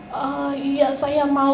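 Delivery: slow, drawn-out reply as a patient; imitating sick brother. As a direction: draw out the consent like someone very ill. Kakak yang sakit parah menjawab. (menirukan kakak sakit, lambat)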